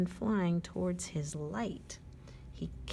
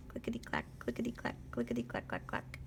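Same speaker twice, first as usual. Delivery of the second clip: low rhythmic whisper fading away; train whisper; 8 semitones lower, 7 dB quieter, much faster than usual. Acted. Reading to a child, a soft train chant fading.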